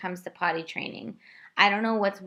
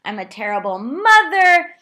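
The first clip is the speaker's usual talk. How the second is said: much higher and louder, breaking into sobs; retold sobbing; 6 semitones higher, 7 dB louder than usual. Mother reliving her potty-training meltdown, sobbing and louder. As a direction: wail it like you're falling apart. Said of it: "and I'm sobbing".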